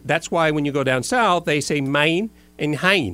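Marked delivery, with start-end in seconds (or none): 1.4-3.1 "mine and hein" said slowly, x0.6, the long A turned to "ai"; slow demo of "man" and "hand" as "mine" and "hein"; Miami vowels. Shown as a demonstration. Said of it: "So when you have man and hand".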